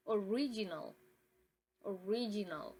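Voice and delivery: ORIGINAL as uh-RIJ-i-nul; English pronunciation. Shown as a demonstration. Teacher quizzes viewers on language, English pronunciation of original. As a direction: say "original" the English way, stress on second syllable, weak ending. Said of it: "then English".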